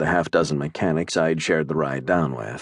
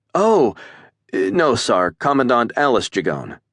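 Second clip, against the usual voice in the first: high, louder startled correction; startled cadet; 6 semitones higher, 3 dB louder than usual. A narrator's reading. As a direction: hurry to set him straight.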